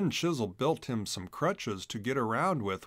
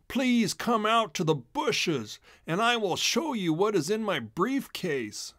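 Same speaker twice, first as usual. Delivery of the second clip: sly stranger; 7 semitones higher than usual. A narrator's reading. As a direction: lure him out sweetly. Disguised mink luring Chisel.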